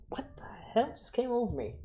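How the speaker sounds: fast surprised whisper; startled whisper. Real, not acted. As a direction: breathe it out as something hits you. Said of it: "But I'm crying now".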